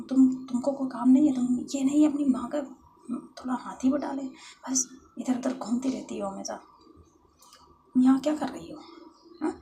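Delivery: loud, high tirade at a rival; shouting angrily. Acted. Jealous lover shouting at Khushi to go home, angry. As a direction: berate her and order her out. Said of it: "वो खुशी के ऊपर जो है वो चिल्ला रही है".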